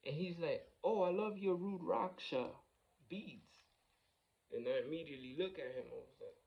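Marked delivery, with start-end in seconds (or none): 0.8-3.6 higher-pitched, delighted compliment; imitated admiration. Homeless man compliments driver's beads, imitated excited admiration. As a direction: imitate a stranger admiring something.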